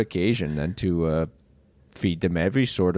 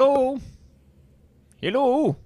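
cheery customer voice; faster than usual. Acted. Customer enters shop.

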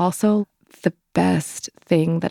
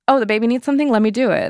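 eager helper; 5 semitones higher, faster than usual. Retold or imitated. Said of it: "everybody's, like, just".

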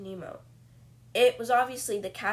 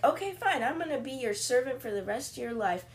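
mock eager surrender; 5 semitones higher than usual. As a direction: cave in with hammed-up cheer.

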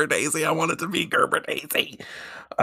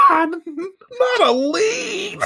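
squealing through laughter; high, slow laughing protest; 4 dB louder, much slower than usual. Real, not acted. Cracking up mid-protest.

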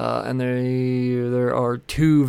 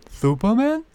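much higher, lisped Superman? as "Thuperman"; a silly high lisp on Superman?; mock lisping squeak; 11 semitones higher than usual. Mocking repeat of the title.

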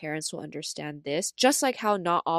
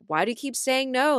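mock annoyed mom; 7 semitones higher, 3 dB louder than usual. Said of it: "she gets mad".

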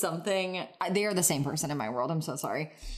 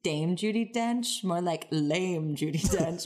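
mock pun; slower than usual. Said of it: "pun on the name".

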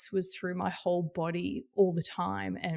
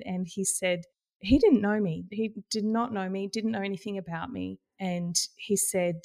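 normal talking voice

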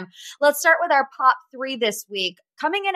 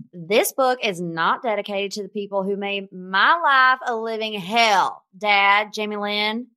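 put-on Southern accent. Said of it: "my best impersonation of a Southern accent".

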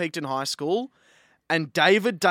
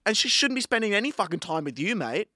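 angry rant; 4 semitones higher, 4 dB louder than usual. Real, not acted. Continues ranting at David.

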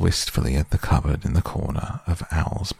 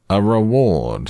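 loud slow booming owl; 4 semitones higher, 4 dB louder, slower than usual. A narrator's reading. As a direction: boom out the word reward slowly. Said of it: "said the Owl very loudly".

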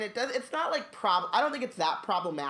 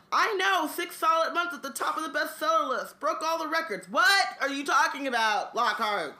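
higher, brighter boastful showman voice; boastful Lockhart; 8 semitones higher, 3 dB louder than usual. Acted. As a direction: play Lockhart bragging about his bestseller. Reading Lockhart's boastful lines.

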